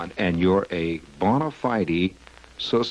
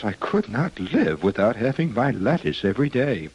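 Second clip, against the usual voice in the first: quoting a lettuce lover; 5 semitones higher than usual. Retold or imitated. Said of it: "We quote her, says".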